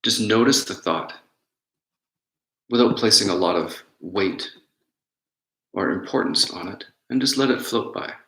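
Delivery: unhurried meditation guidance with long pauses; guided meditation. Real, not acted. Teacher guiding listeners to notice their breath, calm guided meditation. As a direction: guide them gently inward, leaving space between phrases.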